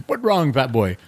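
lightly put-on Jamaican accent, barely off his own voice; a self-admitted bad Jamaican impression, kept light; horrible Jamaican accent. Papa Ranger teasing the bummed college kid, a weak Jamaican accent. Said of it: "I'm gonna do a really horrible Jamaican accent".

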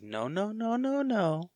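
squeaky high mock plea of no; comic high-pitched panic; mock panicked pleading. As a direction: whine it like a scared victim. Mocking a panicked character.

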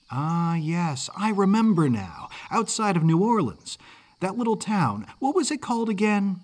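put-on high-pitched kid thinking back; lively young Northern lad, hurrying at the end; chatty Yankee boy. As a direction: recall it aloud like an eager Yankee boy. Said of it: "accent of a mid-Atlantic Yankee".

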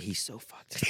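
hushed whisper. Retold or imitated. Whispering to his friend before the room, hushed. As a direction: whisper it like a secret. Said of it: "And I whispered".

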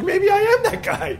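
mock doubting self. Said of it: "I'm like".

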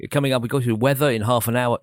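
a light touch of upbeat drive time presenter. Shown as a demonstration. DJ demonstrating his drive time voice, mildly upbeat. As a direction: mildly perk it up like a daytime show. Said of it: "it's a bit more like that".

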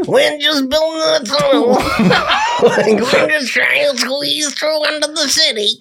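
very high, strained mock Jewish accent; bad Jewish accent. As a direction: squeeze a Jewish accent out while laughing. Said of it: "that's the voice you get".

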